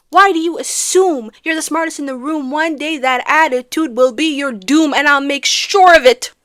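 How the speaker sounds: emphatic, punched threatening quote; mock threat. Recapper spelling out Burr's threat to Hamilton, mock menacing. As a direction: lean into the key words as a warning. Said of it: "has been threatening him for years".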